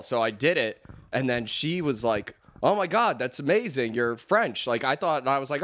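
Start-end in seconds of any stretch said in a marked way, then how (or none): 2.6-4.7 retold starstruck reaction; imitated amazement. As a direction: play an impressed listener, pitch jumping up at the start. Acts out impressed girl at the bar.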